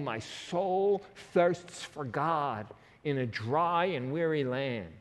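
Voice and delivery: slow, drawn-out yearning, each word weighed; heartfelt longing. Shown as a demonstration. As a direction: lean into "My soul thirsts" slowly, like a dry throat. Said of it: "and saying".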